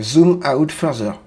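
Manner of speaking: slow, drawn-out American-accented command. Shown as a demonstration. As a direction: stretch the words in an American accent. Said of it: "l'accent américain".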